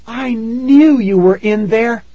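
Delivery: put-on very high, loud childlike cry; excited cry. A narrator's reading. Tara greets her rescued parents, crying out loudly. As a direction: cry out high over the reunion. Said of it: "Tara cried".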